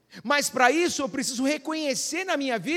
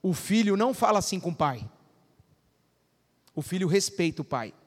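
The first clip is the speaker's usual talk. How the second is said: firm fatherly talk; 4 semitones lower than usual. Retold or imitated. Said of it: "Aí eu virei pro meu filho".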